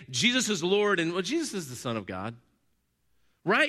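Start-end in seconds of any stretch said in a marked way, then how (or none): 0.1-1.0 higher, firm statement of faith; confident declaration. Shown as a demonstration. Preacher contrasting two confessions, declaring this one firmly. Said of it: "the difference between saying". 1.1-2.3 lower, softer, noncommittal statement; diminishing concession. Shown as a demonstration. Preacher mimicking a lesser confession, downplaying it. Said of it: "you're implying this lesser than".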